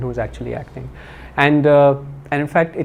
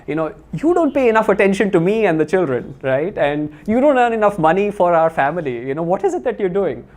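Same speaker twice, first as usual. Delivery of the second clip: higher-pitched retold nagging complaint; housewife grumbling; 4 semitones higher than usual. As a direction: mildly scold a neglectful husband, imitating a grumbling wife. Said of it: "that sort of housewife grumbling".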